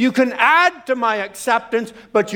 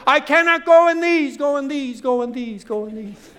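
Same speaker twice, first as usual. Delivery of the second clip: David calling out from inside a giant helmet; echoing helmet voice; 4 semitones higher than usual. Retold or imitated. David in Saul's big helmet, voice echoing and dying away. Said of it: "you hear this echoing voice inside the helmet".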